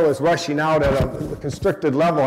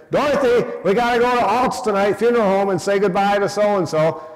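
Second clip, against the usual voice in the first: imitating dad; 5 semitones higher, 3 dB louder than usual. Dad voiced calling to mom.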